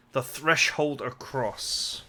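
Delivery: drawn out, word by word; slow, deliberate repeat of the phrase; puzzled slow re-read. Shown as a demonstration. Player querying odd wording in the game text, slow and deliberate. Rereads an oddly worded line.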